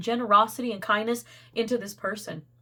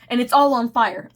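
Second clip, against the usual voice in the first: louder, laughing through the words; laughing punchline; 6 dB louder than usual. Real, not acted. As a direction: burst out laughing at the absurd image. Absurd image, laughing punchline.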